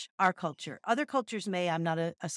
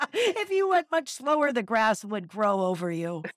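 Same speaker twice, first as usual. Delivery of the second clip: trickster tale voices; 4 dB louder than usual. Acted. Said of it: "laughed the hare".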